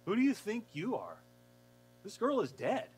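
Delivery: mock him as an upstart; mocking indignation. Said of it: "they go".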